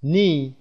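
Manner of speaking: "نی" for knee, starting straight on n; silent K. Shown as a demonstration. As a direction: say "نی" with a long ee and no k. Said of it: "کی تلفظ نمیشه".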